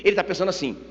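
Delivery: normal talking voice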